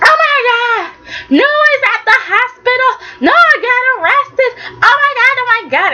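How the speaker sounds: high, frantic, crying panic; mock panic. Retold Nikki, frantic about arrested Noah, crying high panic. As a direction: wail it in a hammed-up frenzy, fast at the end.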